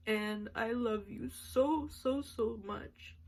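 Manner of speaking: slow and tearful; slow tearful declaration of love; crying. Real, not acted. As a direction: stretch it out, fighting tears. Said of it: "I didn't even think I was gonna cry that much".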